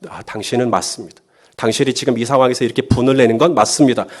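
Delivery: gently validate the angry client; calm validation. Acted. (차분히 공감하는 말투)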